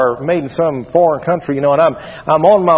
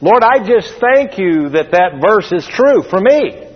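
demonstrating an emphatic prayer of thanks, pitched up; thankful prayer; 3 semitones higher than usual. Shown as a demonstration. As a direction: pray it out with gratitude, leaning on key words. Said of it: "just be able to say during the waiting phase".

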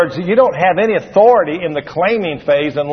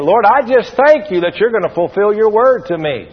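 demonstrating an emphatic prayer of thanks, pitched up; thankful prayer; 3 semitones higher than usual. Shown as a demonstration. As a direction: pray it out with gratitude, leaning on key words. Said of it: "just be able to say during the waiting phase".

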